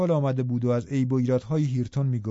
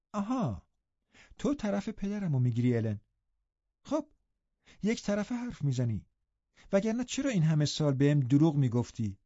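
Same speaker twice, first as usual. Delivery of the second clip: put-on reproachful young girl; 3 semitones higher, 3 dB quieter than usual. Girl accusing her companion of years of lying, reproachful. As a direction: accuse with girlish indignation.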